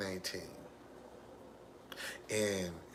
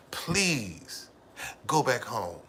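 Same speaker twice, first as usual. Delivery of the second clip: loud, pleading "Please" with a falling end; begging; 5 dB louder, much slower than usual. Retold or imitated. Husband begging wife to return home, loud pleading. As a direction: plead with her to go back home. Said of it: "I begged and pleaded".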